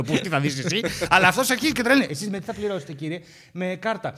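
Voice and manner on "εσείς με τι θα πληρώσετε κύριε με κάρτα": imitating a meek clerk. Employee's calm question retold. (υπάλληλος ρωτά απαλά και αργά για πληρωμή)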